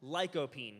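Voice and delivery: lycopene said out clearly, LIKE-o-peen; saying lycopene. Shown as a demonstration. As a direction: spell out lycopene for the class. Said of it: "the word is lycopene".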